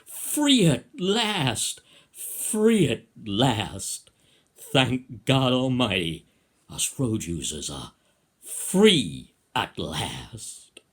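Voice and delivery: loud, drawn-out cry of liberation; mock-jubilant crowd yell; imagined yelling. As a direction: proclaim it slowly at full voice, stretching each FREE. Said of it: "Would they be yelling".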